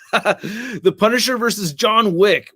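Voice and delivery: laughing. Real, not acted. Laughs reading viewer matchup.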